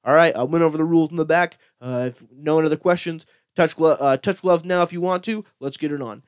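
brisk referee instructions, imitated; fight referee. Referee to two fighters before main event, brisk and businesslike. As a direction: rattle off the rules like a ref. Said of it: "the ref's right there, and he's like".

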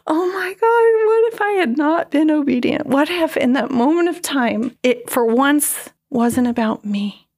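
overwhelmed outcry, half re-enacted; retold scream. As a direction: relive the shock of hearing it in the car. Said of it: "I just started screaming in the car".

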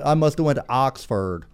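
lightly imitated proper British speech; a hint of an Oxford student's accent; mock proper British. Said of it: "British boy who talks very proper".

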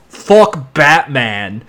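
put-on slow, drawn-out regional accent; put-on American accent. Showing an actor's inconsistent accents, slow accented take. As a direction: stretch the vowels in a put-on accent. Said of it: "like, six different accents".

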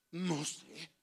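soft, drawn-back mock ignorance; expressive don't-know. Shown as a demonstration. Preacher showing how expressive people feign ignorance, soft and loaded. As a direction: say it low and loaded with hidden meaning. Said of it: "hay gente bien expresiva, le hace".

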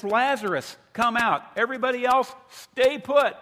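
very loud, high calling voice; commanding shout. Acted. Jesus picks one guy among the dead, shouted command. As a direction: shout orders across a whole cemetery. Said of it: "so he picks one guy, says".

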